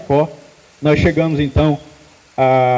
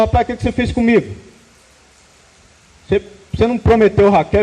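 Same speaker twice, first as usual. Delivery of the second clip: higher, fast, indignant protest; furious complaint; 4 semitones higher, faster than usual. Retold or imitated. Jacob confronting his father-in-law, furious and fast. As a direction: retell Jacob's outrage in a quick raised voice. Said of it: "Jacó ficou furioso".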